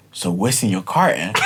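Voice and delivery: put-on curious kids. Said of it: "this curious".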